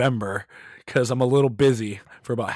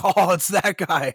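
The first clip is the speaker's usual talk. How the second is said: mock recognition, higher and slower; imitating Lars; 8 semitones higher, 3 dB louder, slower than usual. Drummer spotting a fan in the crowd, mock recognition. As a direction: pitch it up, drawn out, joking as the drummer. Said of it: "He's like".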